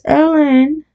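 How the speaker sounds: put-on high, rising call for a child; tearful mock shriek. A narrator's reading. Woman in the crowd calls her child, tearful mild shriek. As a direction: call the name high and pleading, understated tears. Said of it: "with tears in her voice".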